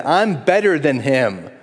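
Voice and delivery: a hint of a self-satisfied churchgoer; proud sneer. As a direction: act the proud comparer. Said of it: "Pride, comparison".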